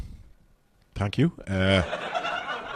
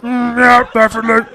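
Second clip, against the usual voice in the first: breathy high mock moan, louder; mock sultry woman; 11 semitones higher, 6 dB louder than usual. Comedian imitating a swooning woman in the crowd, mock sultry. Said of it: "She went".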